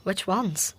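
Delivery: breathy hushed question; whispered aside. Acted. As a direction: ask it under your breath so no one hears. Hushed question during the music.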